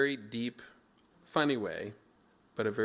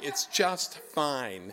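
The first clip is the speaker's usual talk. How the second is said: forced calm; 4 semitones higher, 4 dB louder, much slower than usual. Retold or imitated. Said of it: "and I'm going".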